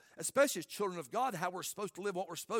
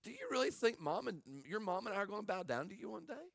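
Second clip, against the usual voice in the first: mild fatherly rebuke; 6 dB quieter than usual. Acted. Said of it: "and Jacob's like".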